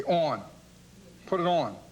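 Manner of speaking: ON said the Philadelphia way; Philadelphia-accented ON, as an example; Philadelphia pronunciation. Shown as a demonstration. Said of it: "We say things like".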